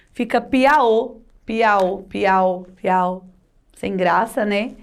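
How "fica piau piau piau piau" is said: "piau" with an oral au ending; missing tilde. Shown as a demonstration. Teacher showing what a forgotten tilde gives, oral au. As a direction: repeat "piau" without any nasal sound. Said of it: "se você esquecer de colocar o tio".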